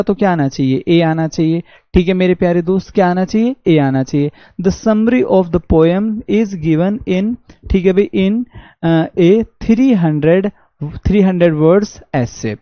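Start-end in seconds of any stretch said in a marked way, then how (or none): 4.6-12.6 very slow, stretched reading of three; slow dictation. Shown as a demonstration. Teacher rereads the example slowly, stressing three. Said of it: "teacher rereads sentence slowly".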